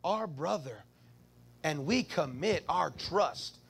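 slow, hushed prayer voice. Shown as a demonstration. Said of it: "this is how we pray".

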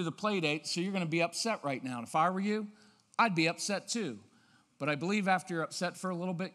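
calm, level reassurance; even, matter-of-fact. Shown as a demonstration. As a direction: talk to the child evenly, as to an adult. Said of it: "even matter-of-fact tone".

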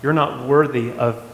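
a light hint of a judgy church lady. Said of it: "that church lady type thing".

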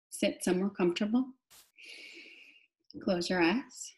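calm cueing with long pauses; guided meditation. Real, not acted. Teacher settles listeners into sitting still, guided meditation. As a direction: settle them gently, leaving long silences.

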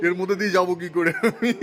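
chuckling while asking; laughing. Real, not acted. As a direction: laugh through the question. Laughing at tiny cave opening.

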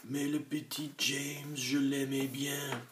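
high, tearful lament; sobbing. A narrator's reading. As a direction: cry over James.

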